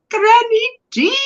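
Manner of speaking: high, delighted hail; excited greeting. Real, not acted. Streamer greets Granny D in chat, excited. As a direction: sing out the name up high.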